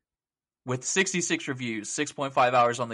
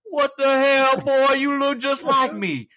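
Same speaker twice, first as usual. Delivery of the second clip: put-on much higher and louder kid voice, slowing down; shocked kid; 12 semitones higher, 5 dB louder, slower than usual. A kid dressed as Arthur meeting him, high shocked squeal. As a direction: squeal it like a startled child. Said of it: "He's like".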